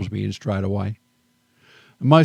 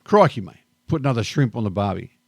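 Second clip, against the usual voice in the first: mock Aussie cliché; faster than usual. Australian expat mocking what Americans hear him say in a hammed-up accent. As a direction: play up the Aussie stereotype Americans expect. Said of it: "here I'm the bloke with the accent".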